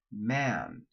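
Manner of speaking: Man with the a kept low, not nasal; model word, vowel kept low. Shown as a demonstration. Accent coach models the word for students. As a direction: hold Man down and out of the nose. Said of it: "repeat after me".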